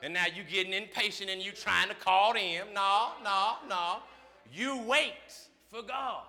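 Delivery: rising, loud call-and-response preaching; whooping preacher building to a shout; preaching at full force. Acted. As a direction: preach it hard, pulling the church along.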